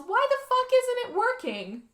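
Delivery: very high-pitched mock yell; frantic, exasperated outburst, acted; retold yell.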